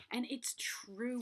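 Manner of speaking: whisper. Real, not acted. Quiet sincere aside.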